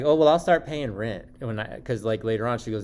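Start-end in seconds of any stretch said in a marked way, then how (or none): 0.0-1.2 higher, louder mimicked offer; mock the girlfriend's offer, pitched up; mildly put-on girlfriend voice; imitating the girlfriend.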